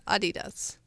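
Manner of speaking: Adidas said the Belarusian friend's way; friend's pronunciation. Retold or imitated. Host quotes a friend from Belarus, imitated pronunciation of Adidas. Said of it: "she always said Ad".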